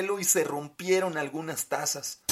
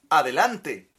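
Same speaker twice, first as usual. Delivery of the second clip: calling out; 7 dB louder, slower than usual. Acted. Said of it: "dijo alguien".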